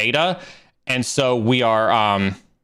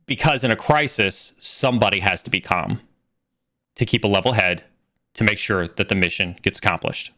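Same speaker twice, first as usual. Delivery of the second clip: lower, even and unhurried; calm steady reply; 7 semitones lower than usual. Retold or imitated. Answering the panicking boss in front of peers, low and level. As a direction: keep it level, like the one cool head in the room. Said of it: "Neil, why are you so calm?".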